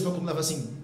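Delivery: ordinary delivery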